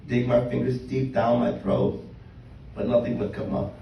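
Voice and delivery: measured poem reading with pauses between phrases; spoken-word poem. Acted. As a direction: read your own poem to a live room, line by line. Reads own poem aloud.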